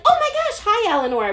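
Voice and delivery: high, loud gushing hello; imitated excited greeting. Teacher greets student she failed to recognise, high gushing. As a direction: overdo the surprise at seeing someone.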